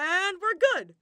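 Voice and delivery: loud bright cheer; cheerful. Acted. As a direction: cut in cheerfully. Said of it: "Balthus cheered".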